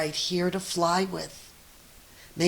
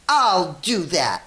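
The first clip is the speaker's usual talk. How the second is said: grouchy scream; 5 dB louder than usual. Acted. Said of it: "screamed the grouchy ladybug".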